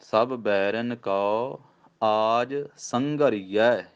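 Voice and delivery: slow recitation, pause after ਕੋ; teacher models the pause at ਕੋ; pause demo. Shown as a demonstration. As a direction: recite ਸਭ ਬੈਰਨ ਕੋ, break, then ਆਜ ਸੰਘਰੀਐ. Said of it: "ਸੰਘਰੀਆ ਕਹਿਣਾ".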